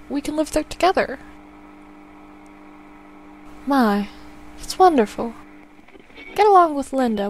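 a lightly voiced mother planning a visit; gentle old mother. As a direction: fuss fondly over your son. Player voices elderly mother.

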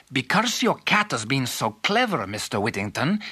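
lilting, pleased king character voice; overjoyed king. Acted. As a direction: praise him as a grateful king. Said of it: "The king was overjoyed".

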